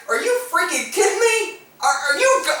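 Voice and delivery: high-pitched incredulous question; stammering off in retold amazement; disbelief. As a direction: re-enact being dumbfounded. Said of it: "I just couldn't believe it".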